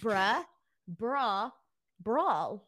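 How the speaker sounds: "Bruh", "bra", "brawl" spaced out, each one distinct; careful contrast. Shown as a demonstration. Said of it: "Okay, you did that time".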